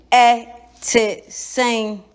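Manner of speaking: "Ete seng" with a short falling vowel; Twi greeting. Shown as a demonstration. Teacher shows a Ghanaian how to say "Ete seng". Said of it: "Say it again".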